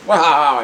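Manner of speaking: loud, drawn-out "waah" of laughter; booming mock laugh. Comedian mimics the laughing Jesus's incredible laugh, loud acted laughter. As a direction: burst out with a huge acted laugh. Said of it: "he laughs, and it was such an incredible laugh".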